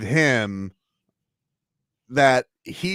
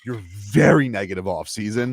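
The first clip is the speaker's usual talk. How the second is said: "very" stretched out and leaned on; stress on VERY; 2 semitones lower than usual. Real, not acted. Co-host teasing his colleague over his gloomy offseason, stress on "very". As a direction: lean hard and long on "very". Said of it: "I cannot stress this enough".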